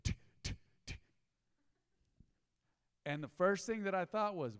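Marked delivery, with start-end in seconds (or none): 0.0-1.0 imitated tick. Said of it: "all I could hear was tick".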